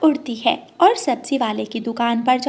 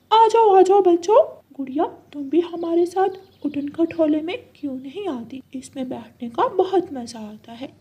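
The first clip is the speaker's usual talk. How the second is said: cheerful parrot; 5 semitones higher than usual. Acted. Parrot inviting children into the flying cot, higher cheerful call. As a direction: call the kids aboard like a jolly parrot.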